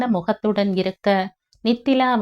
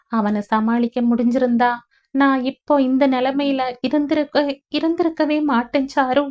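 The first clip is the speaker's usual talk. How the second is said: higher, sorrowful voice; grieving; 5 semitones higher than usual. Acted. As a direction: lament her fate, voice breaking. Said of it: "தன் நிலையை எண்ணி வருந்தி". (வருத்தத்துடன் உடையும் குரல்)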